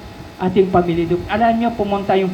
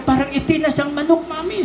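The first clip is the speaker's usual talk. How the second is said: put-on crying child; 9 semitones higher than usual. Crying child voiced in story.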